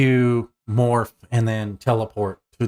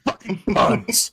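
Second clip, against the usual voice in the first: exasperated shout; 11 semitones higher, slower than usual. Real, not acted. Player reacting to pun.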